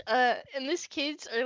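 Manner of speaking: ordinary delivery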